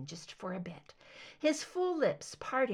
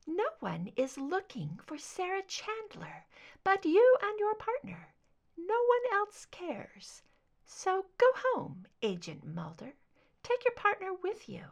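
high cold warning; 10 semitones higher than usual. A narrator's reading. Deborah warning Mulder off.

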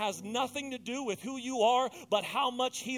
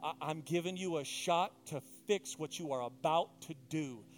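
God speaking plainly; 3 semitones lower than usual. Retold or imitated. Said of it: "he was speaking Cain's language".

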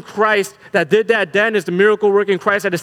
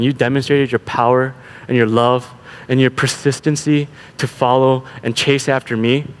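defeated Peter; 3 semitones lower than usual. Acted. Peter confesses his failure.

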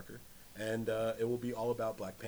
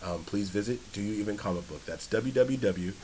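polished announcer voice; white voice; 6 semitones lower than usual. Pretend. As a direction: put on a formal radio read. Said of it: "This is my white voice".

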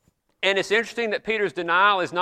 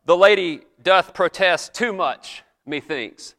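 slow, lightly hammed-up stage delivery, a touch louder; mock-grand recital of "The lady doth protest too much, methinks"; playful old-stage voice, not overdone; theatrical Shakespeare line; 3 dB louder, slower than usual. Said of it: "I don't talk like that every day".

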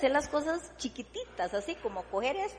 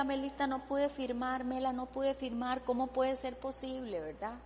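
retold crying; 5 dB quieter than usual. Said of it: "Y yo lloraba y lloraba y le decía".

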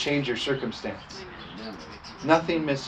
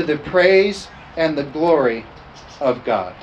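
raised, ringing scripture reading; emphatic scripture preaching; 3 semitones higher, 5 dB louder than usual. Acted. Pastor reading Paul's letter to the church, emphatic preaching. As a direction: preach the verse out with firm volume.

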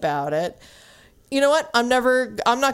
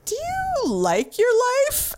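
blunt question; 13 semitones higher than usual. Retold or imitated. Flat blunt girlfriend question.

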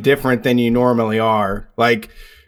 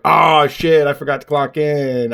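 feigned realization; slower than usual. Acted. Employee making an excuse to the boss, feigned realization. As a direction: pretend it just slipped your mind.

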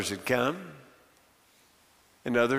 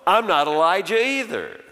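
firm denial; 4 semitones higher, 3 dB louder than usual. Acted. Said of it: "make no mistake".

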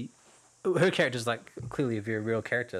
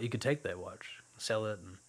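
laconic father figure; 4 dB quieter than usual. Retold or imitated. Father figure offering son the watch, understated and laconic. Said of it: "he's like, so laconic".

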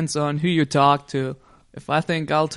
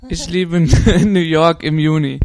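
laughing through it; 8 dB louder than usual. Shown as a demonstration. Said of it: "you all speak it".

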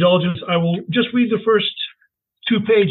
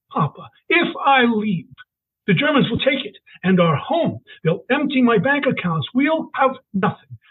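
mild tearful plea; 5 semitones higher than usual. Acted. Father pleading over losing everything.

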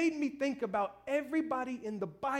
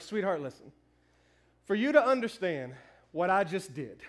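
lower, calm reply through chuckles; gentle explanation; 4 semitones lower than usual. Retold or imitated. Husband explaining to his wife, lower and amused. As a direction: soothe her while holding back laughter. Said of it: "And I was like".

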